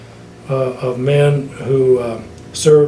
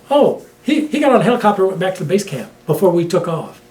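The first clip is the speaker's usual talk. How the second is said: mock offhand report; 3 semitones higher, faster than usual. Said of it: "And so they said".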